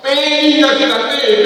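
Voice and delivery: put-on preacher hamming up a child's demand; loud mock whine. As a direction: blast the whining want.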